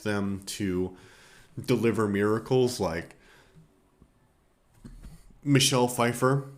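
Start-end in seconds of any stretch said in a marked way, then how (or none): 5.4-6.5 burp while talking; words come out with a burp. Real, not acted. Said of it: "I don't know why I burped and said".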